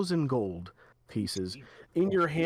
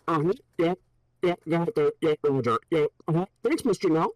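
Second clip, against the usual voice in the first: louder, keen yes-man soldier; eager guard; 4 dB louder, faster than usual. Acted. Clint guard answering his boss, loud and eager. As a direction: agree loudly and eagerly.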